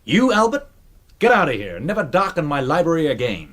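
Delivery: hammed-up rebuke; mock angry colonel. Colonel Grace throwing Albert out of the library, mock anger. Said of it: "imagine I'm Colonel Grace".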